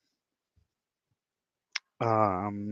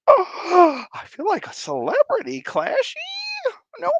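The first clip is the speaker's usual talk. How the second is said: high, breathless squeal while laughing; squealing laughter; 4 dB louder than usual. Real, not acted. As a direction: lose it in giggles.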